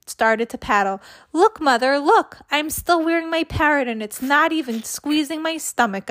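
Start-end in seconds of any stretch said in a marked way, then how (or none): 1.3-6.1 put-on higher child's call across the pool; excited call. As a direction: call out proudly to Mother from the water. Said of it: "I shouted".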